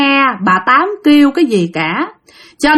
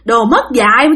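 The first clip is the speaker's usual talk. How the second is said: high, shrill-free complaining scold, pitched up; a cranky grandma berating her family for food; bà già chửi bới, giọng cao; scolding old woman; 7 semitones higher than usual. Acted. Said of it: "chửi quá trời chửi".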